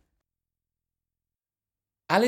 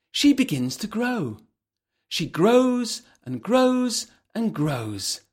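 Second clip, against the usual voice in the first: slow growing build; 7 semitones higher, slower than usual. A narrator's reading. Narrator dramatizes growing.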